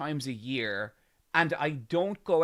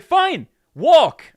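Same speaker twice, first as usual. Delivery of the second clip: much higher, louder mock yell; snapping shout; 14 semitones higher, 17 dB louder than usual. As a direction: bark it like the angry old man. Stranger snaps back.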